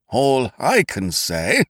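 slow, heated start of a protest. Acted. Victor Beamish objecting to Ukridge, slow and heated. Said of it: "began Victor Beamish heatedly".

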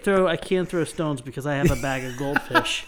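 laughing while trying to talk; fighting back laughter, words squeezed out; stifled giggles. Real, not acted. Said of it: "I'm trying not to laugh here".

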